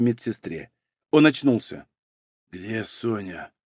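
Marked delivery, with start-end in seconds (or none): 2.5-3.5 very soft, low and slow; weak, hoarse question. A narrator's reading. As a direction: ask feebly through dry lips. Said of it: "хрипло спросил Малинин". (слабый, хриплый, еле слышный вопрос)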